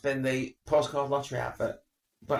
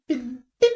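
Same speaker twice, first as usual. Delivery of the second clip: mimicked bing; 10 semitones higher, 7 dB louder than usual. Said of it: "mine goes, goes bing".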